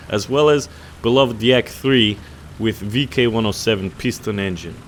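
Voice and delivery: a self-mocking, hammed-up Russian accent; terrible Russian accent. Gamer reads the Russian bias pack ad in a mock Russian accent. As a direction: read the promo like a bad Russian announcer. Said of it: "I can't keep it up".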